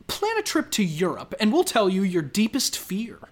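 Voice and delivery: lively game-show title reading; punchy, sing-song clickbait delivery; headline read. Acted. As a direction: present it like a quiz teaser. Reads out quiz headlines.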